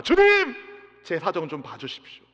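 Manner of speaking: a believer begging the Lord for help; pleading petition. Acted. 성도가 주님께 사정을 봐달라고 간청하며 애원하듯.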